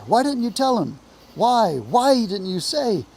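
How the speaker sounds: high, loud, swooping complaint; grumbling reproach. A narrator's reading. Rabbits grumbling at each other, indignant reproach. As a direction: scold with exaggerated dismay. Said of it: "they all started grumbling at each other".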